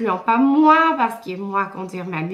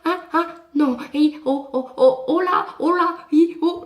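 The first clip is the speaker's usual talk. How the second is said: scared whoa calls; 5 semitones higher than usual. Retold or imitated. Calming her panicking horse.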